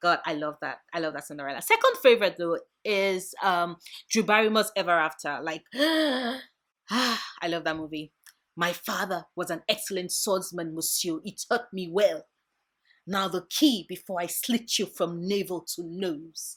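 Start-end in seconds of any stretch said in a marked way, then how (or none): 5.7-8.1 very slow, drawn-out, contented sigh of delight. Talking about a favorite movie, happy sigh. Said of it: "[happy sigh]".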